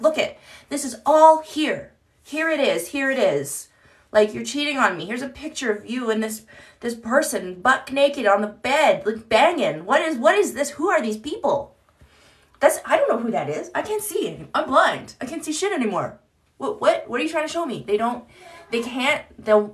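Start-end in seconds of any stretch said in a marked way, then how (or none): 0.0-11.8 confronting a cheater. Retold or imitated. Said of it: "You could be like". 12.6-17.8 mock playing dumb. Mocks narcissist playing dumb.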